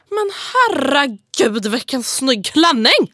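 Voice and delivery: drawn-out, mock-enthusiastic compliment; ironic gushing. Showing a friend Stockholm irony with a fake compliment, gushing ironically. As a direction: gush insincerely, stretching the words out. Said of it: "vi kan ju vara så här".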